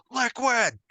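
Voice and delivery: high-pitched mock call, no real volume; imitated shout. Voice actor hailing his game rival, imitated high shout. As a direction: call out the name high, held back in volume. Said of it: "just looks up and just shouts".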